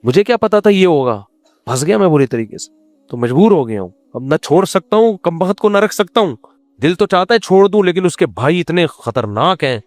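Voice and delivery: mock complaint to the wife, half-hearted; mock trapped husband. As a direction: whine about being trapped, playfully. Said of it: "اس کو یہ بولو".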